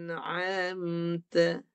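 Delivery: "An'amta" very slow, hamzah at the start; hamzah, not ain. Shown as a demonstration. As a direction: model "An'amta" slowly, each sound drawn out. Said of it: "jangan guna ain".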